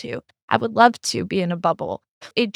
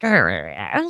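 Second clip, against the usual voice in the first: much lower, hammed-up grumbling noise; mocking grumble; 13 semitones lower than usual. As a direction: mimic her sputtering like a growl. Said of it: "And she was like".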